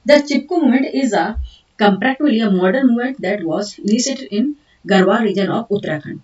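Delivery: slow, deliberate dictation of English notes. Acted. Teacher dictating notes to students, slow and deliberate. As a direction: dictate each word so students can write.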